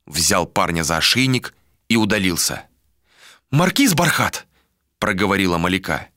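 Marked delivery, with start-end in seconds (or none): 3.5-4.5 indignant address. Acted. Malika addresses him indignantly.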